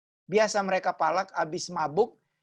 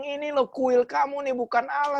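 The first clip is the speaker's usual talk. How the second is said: much higher, insistent declaration; heated street preaching; 8 semitones higher than usual. Retold or imitated. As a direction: proclaim it boldly to the crowd. Quoting his street preaching.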